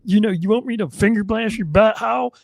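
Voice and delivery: a light mock redneck twang; hint of Southern redneck voice; redneck drawl. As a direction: play a folksy redneck. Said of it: "redneck gay".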